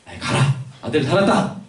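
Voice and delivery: mildly annoyed, get-rid-of-you tone; mock offhand dismissal; dismissive brush-off. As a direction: wave someone away impatiently. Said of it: "귀찮으니까 그냥, 그냥 떨치려고".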